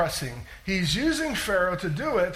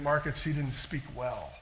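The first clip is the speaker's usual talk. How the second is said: mock correction; 5 semitones lower, 5 dB quieter than usual. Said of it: "English majors out there are saying".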